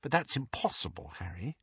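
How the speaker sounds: soft and gentle; gently. A narrator's reading. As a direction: ease it out kindly. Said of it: "Hermione said gently".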